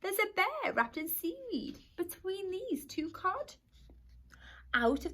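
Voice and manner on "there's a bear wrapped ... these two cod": muttering. Acted. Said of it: "then muttered".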